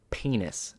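secretive whisper of one word; whispered game opener. Retold or imitated. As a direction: lean in and whisper it. Leans over, starts the penis game.

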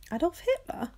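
high startled echo of the name; surprised. A narrator's reading. Boy hearing news of Hitler, surprised echo. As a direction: repeat it in disbelief.

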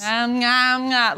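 exaggerated nom-nom chomping noise; imitated munching. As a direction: mimic gobbling food. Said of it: "they go like this".

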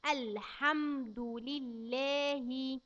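put-on every syllable drawn out for a child; very slow recitation. Shown as a demonstration. Teacher reciting very slowly for a child. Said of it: "يبقى نقول ايه".

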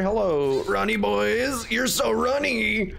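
cutesy voice. Acted. Greeting spiders in baby talk.

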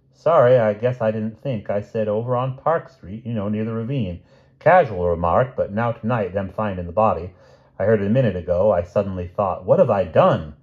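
lightly voiced rueful shopkeeper; apologetic druggist. Druggist admits he gave her street away, mildly rueful. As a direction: explain yourself with a touch of regret.

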